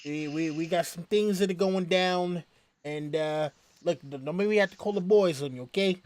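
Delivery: put-on a lightly done Italian mobster accent, a bit quick. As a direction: play a movie wiseguy leaning on someone. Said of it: "they're always, Hey".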